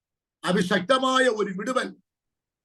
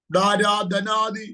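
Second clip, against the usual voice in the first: slow, drawn-out tongues syllables; speaking in tongues; much slower than usual. Real, not acted. Prophet breaking into tongues mid-prophecy, slow and drawn out.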